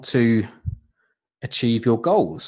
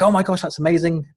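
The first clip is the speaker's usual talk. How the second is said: put-on light, higher-pitched go at an Irish accent; attempted Irish accent; 5 semitones higher, faster than usual. Coach quoting her client's delighted email reply, in attempted Irish accent. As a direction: have a playful stab at sounding Irish. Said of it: "supposed to be an Irish accent".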